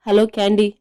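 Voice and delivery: ordinary delivery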